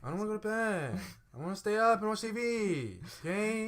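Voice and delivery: high bedtime whine; bratty kid. Pretend. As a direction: protest like a stubborn child. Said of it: "like, the kid who's like".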